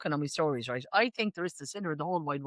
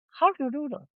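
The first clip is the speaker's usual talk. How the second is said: high, put-on posh presenter voice; posh Missus Brown voice; 6 semitones higher than usual. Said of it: "I would turn into Missus Brown".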